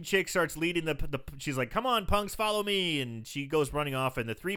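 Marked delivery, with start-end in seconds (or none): 1.7-3.0 higher-pitched retold rallying call; mock call to the gang, pitched up; beckoning call. Film fan voicing the woman leading punks off, beckoning.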